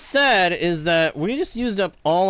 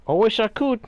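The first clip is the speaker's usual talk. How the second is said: mock pirate accent; 6 semitones higher than usual. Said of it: "Sorry for the accent shift".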